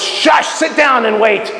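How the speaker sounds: long "shush", then slow order; mock hushing command. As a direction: shush them and slowly put them off. Voices God hushing longtime believers.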